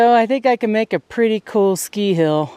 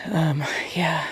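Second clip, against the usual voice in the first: whisper; 7 dB quieter than usual. Real, not acted. Trailing off.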